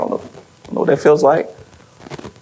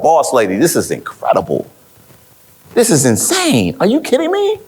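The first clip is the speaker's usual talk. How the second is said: amazed disbelief; 3 semitones higher than usual. Retold or imitated. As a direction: gush like you can't believe the news. Retold excited reaction to billboard.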